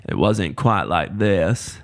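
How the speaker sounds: slow, heavy Southern drawl; exaggerated Southern accent, drawn out. Shown as a demonstration. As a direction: overdo a Forrest Gump-style Southern accent, slowly. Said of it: "undereducated Southern accent, uh, that was inspired by Forrest Gump".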